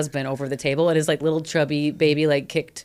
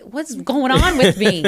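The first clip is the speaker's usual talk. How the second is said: laughing through tears; 7 semitones higher, 4 dB louder, slower than usual. Retold or imitated. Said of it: "cried happy tears".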